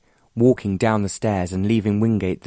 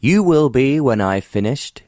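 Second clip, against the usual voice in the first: overbearing; 6 semitones higher, 5 dB louder than usual. A narrator's reading. Overbearing tycoon boasts to the earl.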